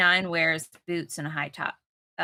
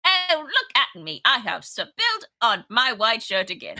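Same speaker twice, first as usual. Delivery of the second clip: hammed-up clumsy character; 4 semitones higher, 5 dB louder than usual.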